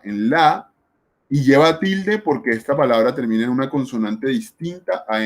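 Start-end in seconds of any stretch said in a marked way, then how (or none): 0.3-0.7 "la" said alone as the stressed syllable; stressed syllable demo. Shown as a demonstration. Teacher showing where lápiz carries its accent, stressed syllable demo. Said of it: "lleva el acento en la penúltima sílaba".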